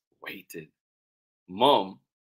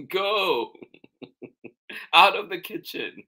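raised, high order from Mom; shooing; 9 semitones higher, 4 dB louder than usual. Acted. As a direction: shoo them out with a lifted voice. Mom shoos children from kitchen.

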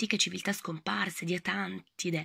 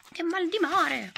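high, slow seasick wail; drawn-out queasy lament; seasick moan; 10 semitones higher, 3 dB louder, slower than usual. Acted. Seasick mouse wailing as the ship rolls.

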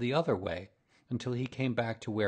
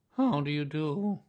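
higher, louder doleful character voice; gloomy; 6 semitones higher, 5 dB louder than usual. A narrator's reading. Donkey greeting his visiting bear friend, gloomily. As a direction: greet him like a mournful donkey. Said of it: "in a gloomy manner to him".

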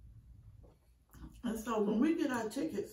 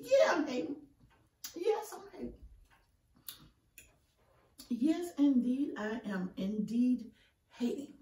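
playful hater; 4 dB louder than usual. Real, not acted. Mock admits hating, drawn out.

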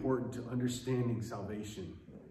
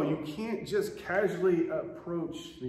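forceful warning; 5 semitones higher, slower than usual. Acted. Preacher voicing God's warning.

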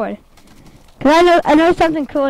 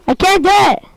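frustrated; 6 semitones higher, 3 dB louder than usual. Real, not acted. Frustrated at failed trick.

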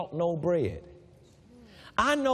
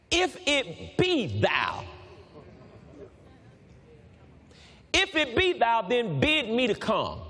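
Peter calling out. Acted.

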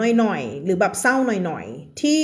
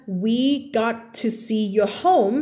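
slow reading; 3 semitones higher, much slower than usual. Shown as a demonstration.

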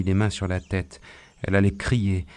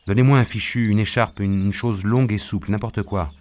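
loud call for help, easing off; urgent request; 3 semitones higher, 4 dB louder than usual. Acted. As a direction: call out what you need, urgently. Healer calls urgently for a bandage. (demande pressante, à voix forte)

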